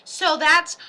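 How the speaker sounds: slow slide into a southern accent; unintended southern accent. Real, not acted. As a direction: let a southern twang slip out slowly. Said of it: "I'm not even trying to do a southern accent".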